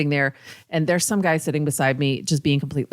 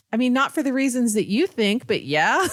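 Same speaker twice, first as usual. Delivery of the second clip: laughing retort; 7 semitones higher than usual. Retold or imitated. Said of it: "And she was like".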